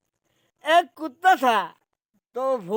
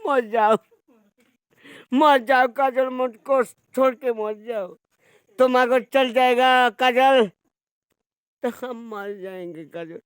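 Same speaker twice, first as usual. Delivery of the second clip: desperate begging. Acted. Begging Kajal not to leave.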